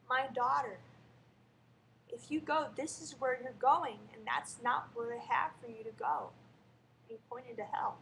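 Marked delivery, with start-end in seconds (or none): 0.1-6.3 loud, solemn voice of Jesus; warm regal boom. Retold or imitated. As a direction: speak as a tender, commanding Jesus. Jesus speaks to her in vision.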